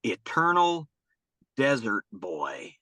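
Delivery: put-on "Eternal" lifted, then "Desert Boy" drawn out slowly with a pause between; slow dramatic quote. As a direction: give the kid's new name a slow, grand pause-filled reading. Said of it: "He said".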